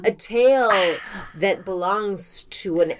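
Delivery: hammy storyteller, slowing at the end; theatrical show intro. Acted. Podcast host teases a tale of an unseen animal, theatrical and drawn-out. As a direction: stretch the ending out for suspense.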